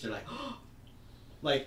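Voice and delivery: a quick mock dramatic gasp; soap opera gasp. Podcaster mocking the student reaction shots with a hammed-up gasp. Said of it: "uh, soap opera-ish".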